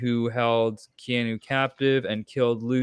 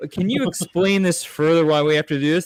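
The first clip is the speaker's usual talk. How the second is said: lightly voiced puzzled question, a bit higher; mock inquisitive; 5 semitones higher, 4 dB louder than usual. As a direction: mimic a curious skeptic, lightly. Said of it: "They're not like".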